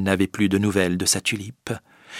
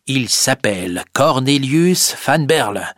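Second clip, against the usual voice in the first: higher, indignant Boxtel; Boxtel's accusation; 6 semitones higher than usual. Acted. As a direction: accuse the girl boldly. Boxtel denounces prisoner.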